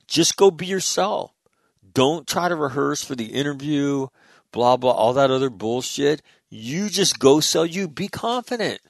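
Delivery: high, emphatic coaching; pep talk. Retold or imitated. Telling Colleen how to handle the interview, emphatic pep talk. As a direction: retell a rousing send-off, pitch lifted.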